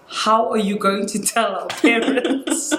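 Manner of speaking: brother's question, drawn out and breaking into laughter; slow it down, then crack up at the end; retold laughing question. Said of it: "he just burst out laughing".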